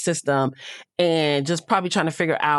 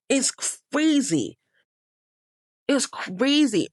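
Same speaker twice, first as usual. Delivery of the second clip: higher, incredulous; higher, slower incredulous remark; disbelief; 8 semitones higher, slower than usual. Real, not acted. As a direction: say it like you can't believe it. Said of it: "speaker exclaiming her disbelief".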